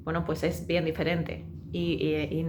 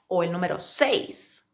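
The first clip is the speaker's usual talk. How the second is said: slow model; slower than usual. Shown as a demonstration. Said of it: "pronunciar despacio".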